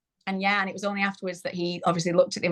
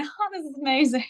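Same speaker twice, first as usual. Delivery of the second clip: higher-pitched mock gushing; retold delight; 8 semitones higher than usual. FaceTiming friends from the bath in early labour, retold gushing. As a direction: imitate giddy delight to friends. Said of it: "FaceTime my friends laughing".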